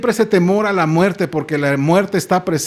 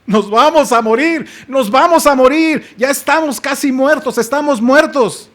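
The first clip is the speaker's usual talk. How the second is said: terrified wail; 6 semitones higher than usual. Acted. Preacher voicing the terrified disciples in the boat, high wailing. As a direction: plead as if drowning.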